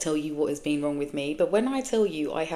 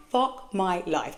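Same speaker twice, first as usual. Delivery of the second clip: weary; 4 semitones higher, much slower than usual. Retold or imitated.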